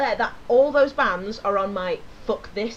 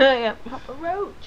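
put-on Geordie accent; slower than usual. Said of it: "Why did you say that in a Geordie accent?".

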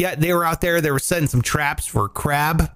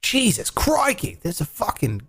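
mock Australian accent. Fishermen spotting the naked man, mock Australian accent. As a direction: imitate an astonished Australian fisherman, lightly. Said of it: "They were like".

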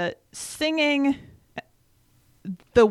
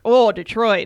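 mock disdain; 2 semitones higher, 8 dB louder than usual. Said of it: "not in a, like".

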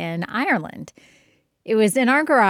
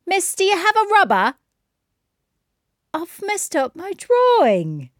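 much higher, louder pupil voice; imitated schoolchild; 11 semitones higher, 4 dB louder than usual. Pupil asks Miss for help with a drawing, high-pitched imitated child. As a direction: pipe up like a kid calling the teacher. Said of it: "one of my favorites".

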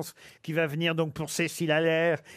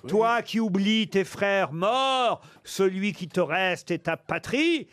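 furious warrior; 2 semitones higher than usual. Acted. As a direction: condemn her with grand fury. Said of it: "lui dit-il". (guerrier indigné qui maudit)

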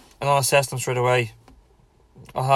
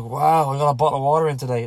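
excited; 5 dB louder than usual. Pretend. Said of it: "Be like".

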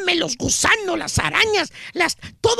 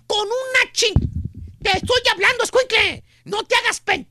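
put-on a mildly raised, bossy yell at the kid; mock angry shout; 3 semitones higher, 3 dB louder than usual. Father yelling at his scared son, a mild mock shout. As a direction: bark it like an irritated father, only half full.

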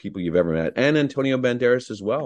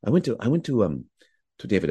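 a hint of Omar's measured, beautiful way of speaking; gently hesitate, as Omar recalling the day; Omar impression; faster than usual. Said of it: "I'm doing an impression of Omar".

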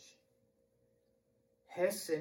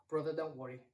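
soft, hushed reassurance; calm him down quietly; gentle reassurance; 3 semitones lower, 8 dB quieter, faster than usual. Acted. Speaker forgives friend for ruined laptop, soft and reassuring.

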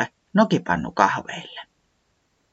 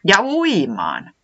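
eager; 6 semitones higher, much slower than usual. Acted. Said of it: "säämies innostui".

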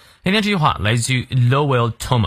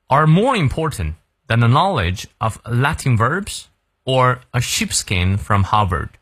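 model read-through. Shown as a demonstration. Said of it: "从头到尾我们来过两遍".

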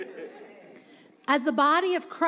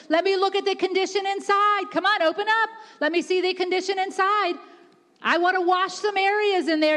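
raised, pressing preacher's delivery; urgent preaching; 3 semitones higher than usual. Real, not acted. Holy Spirit asking to look inside, preached urgently. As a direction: press the appeal home insistently.

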